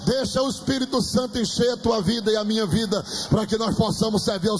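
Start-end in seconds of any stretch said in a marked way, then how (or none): 0.1-2.3 rising, high-pitched preaching climax; fervent declaration. Real, not acted. Preacher declaring growth over the congregation, fervent declaration. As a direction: climb line by line to a ringing command.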